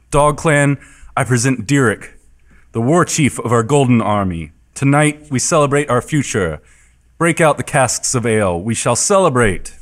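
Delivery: lightly voiced orc proclamation; proclaiming orc. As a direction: address the gathered clan in measured announcements. Game master voices Koja's proclamation.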